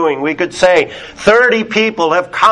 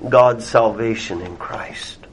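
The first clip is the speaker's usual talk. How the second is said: whisper; 7 semitones lower, 6 dB quieter than usual. Acted. Voicing the proud man's claim.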